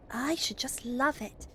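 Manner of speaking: put-on keen child. Roberta answers Father about driving engines, eager and keen.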